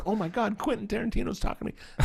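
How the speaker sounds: high, held-in astonishment; starstruck. Retold or imitated. Kid being talked to by a famous director, starstruck awe. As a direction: imitate an awed kid, high-pitched. Starstruck son's inner reaction.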